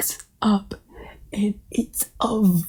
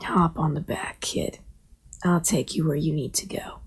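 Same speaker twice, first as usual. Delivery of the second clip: put-on wise old turtle; 4 semitones lower, 7 dB quieter than usual. Old turtle offers a ride.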